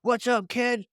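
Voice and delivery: lightly voiced cool pilot, drawn out. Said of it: "she was like".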